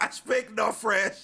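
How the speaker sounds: lightly voiced baffled wife; mock foreign-speaking wife. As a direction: answer slowly as an uncomprehending wife. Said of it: "And she'd be like".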